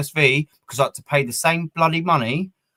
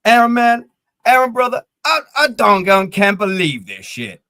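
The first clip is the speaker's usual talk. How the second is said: imitating a mate, higher and louder with disbelief; excited mate; 9 semitones higher, 6 dB louder than usual. Retelling a mate's message to the co-host, excited and loud. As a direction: play a friend who can't believe what he's seeing. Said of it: "He was like".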